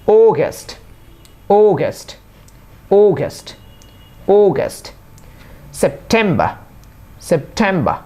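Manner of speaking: অগাস্ট as "OH-gəst", অক্টোবর as "ok-TOH-bə"; pronunciation drill. Shown as a demonstration. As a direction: month names singly, English vowels, -বর endings as "-bə" without r. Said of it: "এখন তাহলে শুরু করি". (শুদ্ধ ইংরেজি উচ্চারণে থেমে থেমে)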